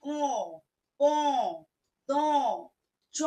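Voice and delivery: ক, প, ত, চ each said with a nasal vowel; nasal letters. Shown as a demonstration. Teacher sums up the nasal sound, nasal letters. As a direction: list the letters through the nose. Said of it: "নাকি সুরে".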